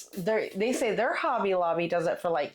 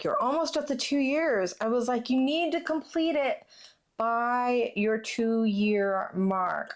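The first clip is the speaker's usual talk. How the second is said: higher-pitched retold nagging; mock nagging; 4 semitones higher than usual. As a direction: nag him lightly, voice raised in pitch. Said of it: "I've been nagging him".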